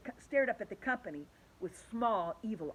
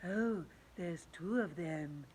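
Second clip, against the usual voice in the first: Miss Spider; 4 semitones lower, 4 dB quieter, slower than usual. A narrator's reading. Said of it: "said Miss Spider".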